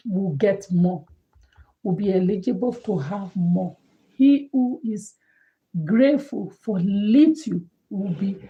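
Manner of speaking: quoting a proverb. Retold or imitated. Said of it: "in my dialect, they will say".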